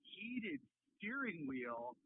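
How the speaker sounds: slow, unimpressed drawl on heated steering wheel; mock disbelief, slowed right down; skeptical. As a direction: drag it out like it's silly. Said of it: "And I looked at him like".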